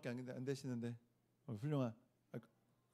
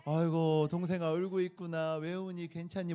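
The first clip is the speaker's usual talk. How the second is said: softer, gentle comforting voice to a crying little brother; tender older sibling asking what's wrong; caring sibling; 3 dB quieter than usual. Shown as a demonstration. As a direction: soothe a little one kindly. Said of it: "이렇게 해야 돼".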